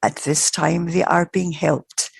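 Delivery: careful, measured retold reply; slow down and place each word with care. Spirit answering the minister after thought, slow and careful. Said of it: "he said very carefully".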